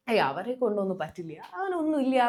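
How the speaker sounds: mild mock scorn, pitch jumping on the last phrase; dismissive scorn. Teacher imitating people who belittle others, mild dismissive scorn. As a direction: imitate someone lightly writing others off. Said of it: "ചിലരങ്ങനെ ആളുകളെ പുച്ഛിക്കും".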